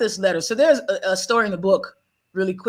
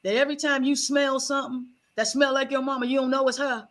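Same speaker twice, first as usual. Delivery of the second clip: mildly raised, a hint of a blunt grandmother; granny scolding; 2 semitones higher than usual. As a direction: set her straight like granny, lightly played. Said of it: "She said".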